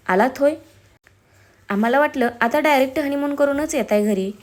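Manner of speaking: lightly sarcastic jibe; a touch of mocking disapproval; taunting. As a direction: needle the couple as they come in. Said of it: "नितीनच्या आईने टोमणा मारला".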